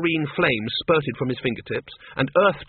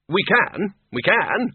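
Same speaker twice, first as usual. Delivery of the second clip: high, louder curt retort; snapped; 8 semitones higher, 3 dB louder, slower than usual. A narrator's reading. Ridcully snaps at Windle, impatient and curt. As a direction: cut him off impatiently. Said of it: "snapped Ridcully".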